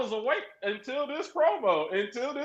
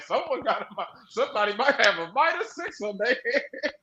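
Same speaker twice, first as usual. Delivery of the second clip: laughing remark, slightly softer; laughing aside; 4 dB quieter than usual. Retold or imitated. Fan repeating the joke prediction about a wrestler, laughing. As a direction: chuckle it out again. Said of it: "I was like".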